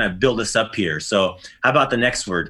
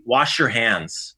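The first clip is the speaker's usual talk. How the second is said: slow and clear; much slower than usual. Shown as a demonstration. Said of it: "This is the way you say".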